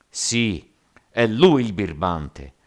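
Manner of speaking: loud mob shout; yelled accusation. A narrator's reading. Dozens of rioters blaming the captain, yelling. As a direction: yell the accusation as an angry crowd. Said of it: "urlarono trenta o quaranta voci".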